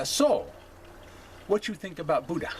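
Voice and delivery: lightly imitated Hawaiian accent with clipped grammar; a hint of Hawaiian dialect, imitated. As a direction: quote the missionary in a mild Hawaiian accent. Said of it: "imitate him in his dialect and his accent".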